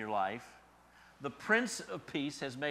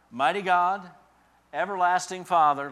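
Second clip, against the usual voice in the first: higher, louder ringing proclamation; proclaimed loud; 6 semitones higher, 11 dB louder than usual. Real, not acted. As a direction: call out the divine names. Climax of reading.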